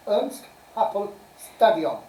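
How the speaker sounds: carefully spaced words in a put-on Welsh accent; best Welsh accent. Shown as a demonstration. Quizmaster repeating the stadium name, in an attempted Welsh accent. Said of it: "best Welsh accent".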